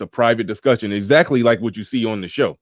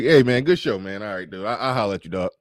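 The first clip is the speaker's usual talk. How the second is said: casual friendly guy; 3 dB quieter than usual. Retold or imitated. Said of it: "He was like".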